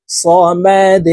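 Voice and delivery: সমাদ with a bounced final d; qalqala on dal. Shown as a demonstration. Teacher to viewers demonstrating the qalqala on সমাদ. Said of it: "দাল কলকলা করে ধাক্কা দিয়ে".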